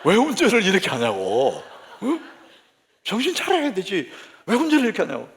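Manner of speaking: scolding passenger-seat nag; acted wifely nagging. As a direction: scold the driver like an exasperated wife. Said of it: "아내는 잔소리합니다".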